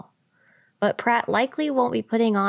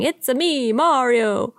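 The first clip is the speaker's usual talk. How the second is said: a hammed-up Mario Italian accent, a little louder; mock Italian accent; 6 semitones higher, 4 dB louder, slower than usual. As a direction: play the Mario catchphrase in a jokey fake Italian accent. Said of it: "where he is going".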